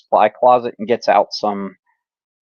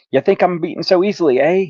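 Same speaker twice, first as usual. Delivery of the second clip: a light mock snarl at the heroes, a touch higher; snarling trucker; 8 semitones higher than usual. A narrator's reading. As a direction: voice the beaten trucker sneering up at them. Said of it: "he snarls".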